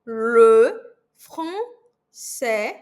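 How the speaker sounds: "le français" com os lábios em bico no "le"; faça biquinho no "le"; lips rounded. Shown as a demonstration. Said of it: "com bico". (le com biquinho francês)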